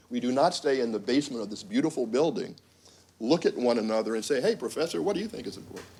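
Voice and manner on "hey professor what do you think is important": higher-pitched mock question to a professor; caricatured academic. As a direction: lightly caricature an earnest colleague. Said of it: "I'm obviously making a caricature".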